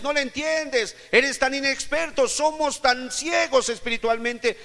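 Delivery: high-pitched, loud sermon delivery; impassioned preaching. Acted. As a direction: preach it in a high, ringing cry. Preaches at full force. (predicación apasionada, a voz en cuello)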